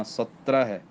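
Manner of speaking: ਸਤਰਹ said firmly, each sound pressed; ਸਤਰਹ with crisp, tight consonants; said tightly. Shown as a demonstration. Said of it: "ਇਹ ਕੱਸ ਕੇ ਬੋਲਣਾ".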